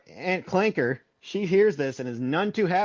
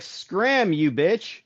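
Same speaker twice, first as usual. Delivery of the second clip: higher, snapped insult at the ogre; mock cussing grandpa; 3 semitones higher, much slower than usual. Grandpa cussing out the ogre, mock angry yell. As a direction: shoo off the ogre with a mock curse.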